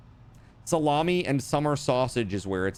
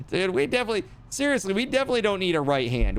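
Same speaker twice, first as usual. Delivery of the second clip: excited; 8 semitones higher, much faster than usual. Real, not acted. Excited joke.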